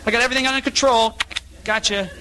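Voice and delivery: high, mocking teen voice thanking mom; mock sulky teen. Preacher mocking a disfellowshipped teen to mom, high. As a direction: mimic a smug teenager heading to his room.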